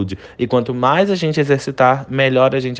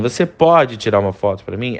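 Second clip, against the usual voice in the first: "pode" with a plain rising question tune; the casual, less polite ask; contrasting intonation; 3 semitones lower than usual. Shown as a demonstration. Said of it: "É diferente a entonação". ("pode" com entonação de pedido comum)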